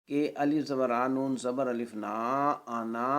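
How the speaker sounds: every letter sounded, alif of آنا held; long final vowel. Shown as a demonstration. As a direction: spell it as written, آنا ending on a long "naa". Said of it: "یہ لکھنے کی صورت میں پڑھی جائے گی". (لکھائی کے مطابق آنا کا الف کھینچ کر)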